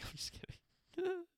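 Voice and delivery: high, slow laughing I'm just kidding; squeaky laughing retraction. Real, not acted.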